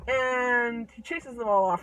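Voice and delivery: ordinary delivery, nothing marked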